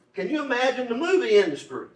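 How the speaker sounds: high-pitched rhetorical disbelief; incredulous. Real, not acted. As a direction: ask it in amazed disbelief, pitched well up. Rhetorical disbelief about who opposed bill.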